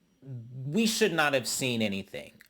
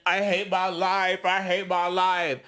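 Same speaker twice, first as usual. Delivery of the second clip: slow, droning wail, raised in pitch; mock wail; 3 semitones higher than usual. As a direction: imitate a miserable woman out of it. Imitating sick woman's repeated wail.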